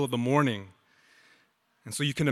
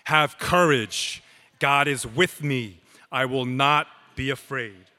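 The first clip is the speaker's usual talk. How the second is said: confident declaration. Shown as a demonstration. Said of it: "say this together with confidence".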